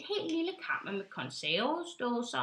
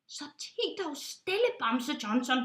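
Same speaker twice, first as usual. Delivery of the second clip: impatient hush; 3 semitones higher than usual. Acted. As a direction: shush him off. Pilot hushing Johnson.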